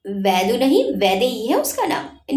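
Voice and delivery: lightly faked heavy man's voice, teasing; half-hearted impression of Jay's heavy tone, giggly; a hint of a heavy-voiced man, mocking him. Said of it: "जय की acting करते हुए भारी आवाज में बोली".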